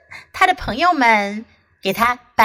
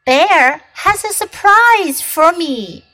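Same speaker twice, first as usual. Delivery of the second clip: Fox voice; 6 semitones higher, 4 dB louder than usual. Acted. Fox voiced in read story.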